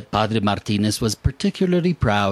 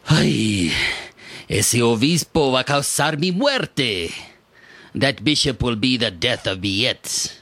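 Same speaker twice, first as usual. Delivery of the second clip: lightly voiced indignant priest; irate priest; 2 semitones higher than usual. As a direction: grumble like an offended old priest. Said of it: "the irate priest".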